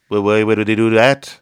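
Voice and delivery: baffled Liverpool retort; impression of a famous singer. The singer answers a bandmate in a puzzled Liverpool accent. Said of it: "Dana Carvey having conversations ... as John Lennon".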